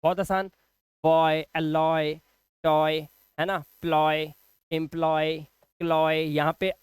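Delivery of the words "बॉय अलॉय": बॉय, अलॉय drawn out slowly, leaning on the ऑय vowel; slow model words. Shown as a demonstration. Teacher modelling the ऑय sound for students, slowly. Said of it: "ऑय होता है".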